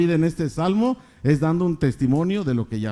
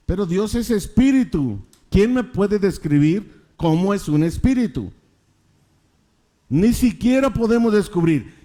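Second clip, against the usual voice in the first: emphatic preaching; 5 semitones higher than usual. Real, not acted. Preacher exalts God's majesty.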